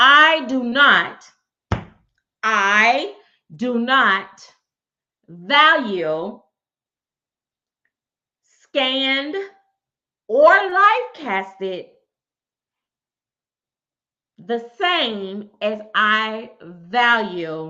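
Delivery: slow, deliberate, each word laid out carefully. Recording a statement for the audience, speaking slowly. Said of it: "I'm gonna say this slow".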